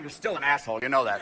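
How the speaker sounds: low-pitched cat remark; cool feline contempt; disdainful cat. Acted. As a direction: deliver the insult low and unimpressed. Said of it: "your cat sits over there going".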